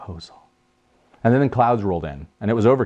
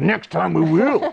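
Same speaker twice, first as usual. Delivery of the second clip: 1 inner sarcastic grumble; 9 semitones higher, slower than usual. Retold or imitated. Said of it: "Inside, I was like".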